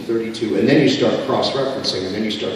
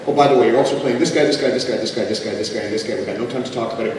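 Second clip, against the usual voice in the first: rattled-off studio instructions; faster than usual. Retold or imitated. Retold studio director piling on roles.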